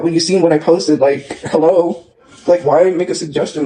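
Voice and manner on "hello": exasperated. Real, not acted. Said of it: "exasperated hello".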